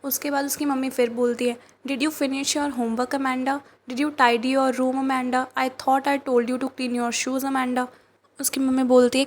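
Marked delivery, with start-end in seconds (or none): 1.9-7.9 slow, measured poem reading; poem recitation. Acted. Teacher reading the mother's nagging to class, slow recitation. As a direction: read each line slowly, pausing on Amanda.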